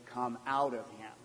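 soft, low, polite request; very nice. Shown as a demonstration. Preacher shows the tame translation, very nice. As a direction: understate it mildly and quietly. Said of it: "That sounds very nice".

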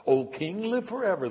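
high, loud royal salutation; ringing hail. A narrator's reading. Queen greets the king on entering, high ringing hail.

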